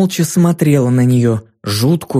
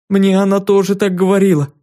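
put-on strained girl; 5 semitones higher than usual. A narrator's reading. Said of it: "сдавленно отозвалась девочка".

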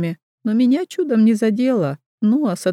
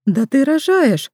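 higher, slow startled exclamation; surprised midwife; 6 semitones higher, slower than usual. Acted. Midwife realises the girl is in labour, startled. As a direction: realise it with a jolt.

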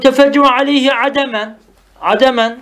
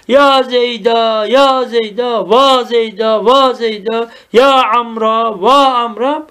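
slow, chant-like mourning calls; mock lament; slower than usual. Teacher showing students how mourners call the dead, mock lament. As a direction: repeat the drawn-out calls like a rhythmic dirge. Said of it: "Böyle ağlıyor yani".

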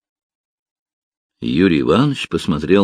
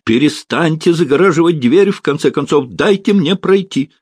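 higher and louder, demanding; loud, indignant protest; loudly; 8 semitones higher than usual. A narrator's reading. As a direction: raise your voice to get past. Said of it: "И снова громко".

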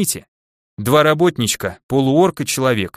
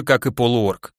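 ordinary delivery, nothing marked

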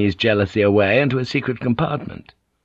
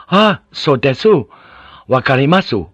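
sudden realisation; 5 semitones higher, 5 dB louder than usual. A narrator's reading. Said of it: "Then his eyes lit up".

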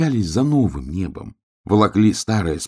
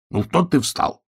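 higher-pitched impatient scolding; cross; 8 semitones higher than usual. A narrator's reading. Bear cub scolding the hedgehog for stopping, mildly cross. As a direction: snap at him, mildly cross. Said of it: "рассердился медвежонок".

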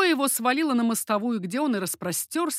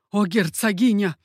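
loud appeal; imploring; 6 dB louder than usual. A narrator's reading. Mercandon begging the duchess to step in, imploring. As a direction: call on her, imploring. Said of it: "возмолился Меркандон".

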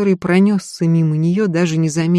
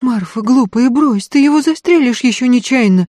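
кричит в страхе, выше и громче; останавливает служанку с ружьём; испуганный крик; 8 semitones higher, 6 dB louder than usual. A narrator's reading. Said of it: "испуганно закричала Софья". (Софья в испуге кричит Марфе)

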